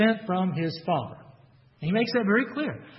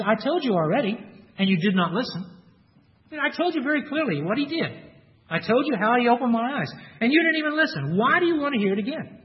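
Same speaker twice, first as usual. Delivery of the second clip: exasperated retort, pitched higher and insistent; 5 semitones higher than usual. Retold or imitated. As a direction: repeat it like you've lost patience. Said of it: "the man is a little exasperated".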